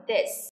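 "this" with tongue out and a final S. Shown as a demonstration. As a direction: model "this" opening on voiced TH. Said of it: "Đưa lưỡi ra và nói".

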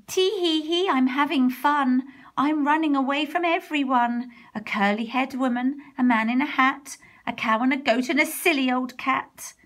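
sing-song gloat over everyone chasing him; gingerbread man gloating. Acted. Gingerbread man taunts his chasers.

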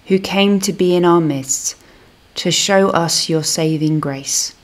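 measured, reverent prayer voice; spoken prayer. Acted. Minister opening the service prays to God, reverent. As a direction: address God in earnest prayer.

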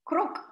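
mild croak, voiced lightly. Shown as a demonstration. Teacher shows a frog's noise, lightly. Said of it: "The noise that a frog makes is croaking".

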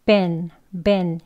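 been said short with an eh vowel; short weak been. Shown as a demonstration. Teacher repeating the weak form been short. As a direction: clip been to ben. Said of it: "짧게".

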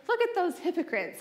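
scornful critics. Retold or imitated. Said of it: "they say".

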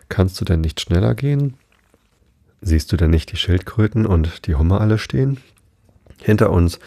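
measured, lightly lilting poem recitation; slow sad verse. A narrator's reading. Mock Turtle sings for Alice's dance, understated slow verse recitation. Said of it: "sang dazu, sehr langsam und traurig".

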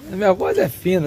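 thin, high duck-like voice from a strained throat. Real, not acted. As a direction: voice gone thin and quacky, still recovering. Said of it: "eu tô com uma voz de pato aqui".

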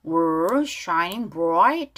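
"bright" with a lightly released T; weak final T. Shown as a demonstration. Teacher points out the ending to learners, T weakened. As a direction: ease off the T closing "bright". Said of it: "트 발음 약하게".

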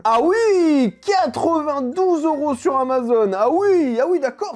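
high, loud surprise, drawn out; astonished. Real, not acted. Vlogger discovering the Amazon price, astonished.

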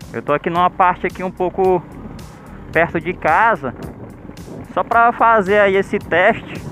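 muffled through a closed helmet; talking with the visor down; inside a helmet. Real, not acted. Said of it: "Baixei aqui a viseira".

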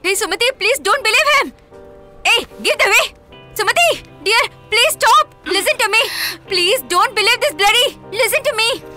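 pleading shout. Acted. Parent shouting after a daughter who is leaving, desperate pleading.

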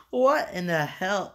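laughing. Real, not acted. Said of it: "I can't control myself laughing like this".

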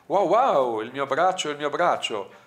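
loud, high acted yelp; storyteller acting a pained outburst; cry of pain. A narrator's reading. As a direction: cry out as if burned, easing slightly. Burned character cries out in pain.

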